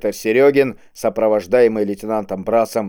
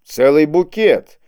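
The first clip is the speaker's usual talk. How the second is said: slow, higher, louder exclamation; almost admiring exclamation; 6 semitones higher, 6 dB louder, slower than usual. A narrator's reading. Кул reacts to the list of charges, almost admiring exclamation. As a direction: exclaim as if impressed. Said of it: "едва ли не с восхищением воскликнул".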